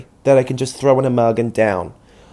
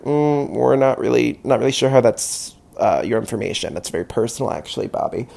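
prim deflection; 4 dB quieter than usual. Retold or imitated. Deflecting Bobby's husband question, prim and fading. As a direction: primly dodge the question, trailing off softer. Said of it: "I'd be like".

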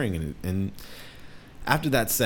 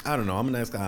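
higher, hesitant polite refusal; lightly pitched-up hesitant self; polite hesitation; 6 semitones higher than usual. Retold or imitated. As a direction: try to let him down nicely. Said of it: "I'm like".

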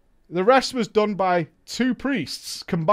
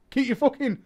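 normal talking voice

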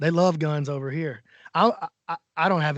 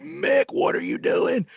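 shocked protest; 9 semitones higher, slower than usual. Retold or imitated. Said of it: "And I was like".

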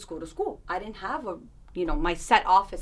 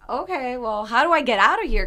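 panicked question; 6 semitones higher, 9 dB louder than usual. Retold or imitated. Sudden panic, wanting to escape.

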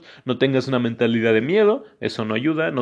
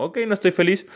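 lighter, higher accepting voice; high self-talk; 9 semitones higher than usual. Retold or imitated. Telling himself calmly he is not happy. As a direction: shrug it off brightly. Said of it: "Es como".

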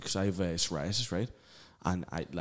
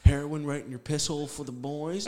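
louder, higher, triumphant rallying call; hyped lad catchphrase; 7 semitones higher, 6 dB louder than usual. Retold or imitated. Mate quoting his lad's absurd dare, hyped and loud. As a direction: proclaim it like a toast to the lads. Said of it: "and you'd be like".

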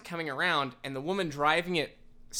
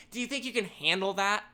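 condescending mock challenge; 6 semitones higher than usual. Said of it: "pauses for five seconds and goes".

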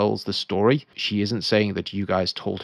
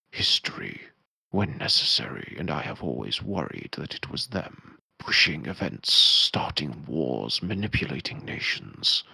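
a wary wizard confiding a dark secret, slowly; Amon; slower than usual. Acted. Wizard confiding his fears to the party, grave and slow.

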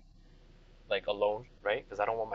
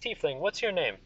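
higher-pitched royal question; inquiring king; 7 semitones higher than usual. Acted. King asking a tiefling's name, inquiring. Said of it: "he goes".

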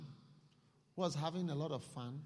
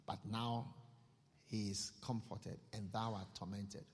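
Abraham's solemn reply. Acted. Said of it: "Father Abraham said".

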